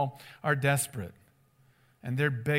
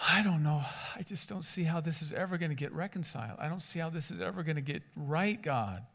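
doubting sigh; 6 dB quieter than usual. Retold or imitated. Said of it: "I just think".

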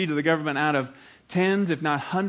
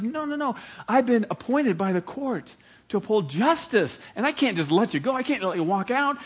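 lightly voiced judge, higher, refusing; a hint of a firm judge; 4 semitones higher than usual. Judge refusing his old friend, lightly acted and firm. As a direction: hold the line on justice, lightly acted.

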